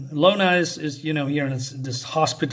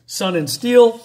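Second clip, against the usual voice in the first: louder, higher ring announcer reveal; announcer call; 5 semitones higher, 6 dB louder, slower than usual. Retold or imitated. Announcer to the crowd, introducing the new champions in a louder announcer call. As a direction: belt out the team name like an announcer.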